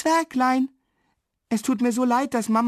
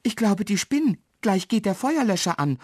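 high-voiced indignant warning; raised, urgent exclamation; alarmed call; 8 semitones higher, 3 dB louder than usual. A narrator's reading. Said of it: "ruft Marli und rennt los".

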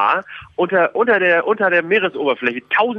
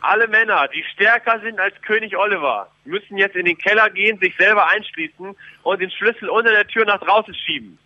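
royal proclamation; 2 semitones higher than usual. Pretend. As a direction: proclaim the king's will to the people. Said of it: "Hier kommt der Wille des Königs".

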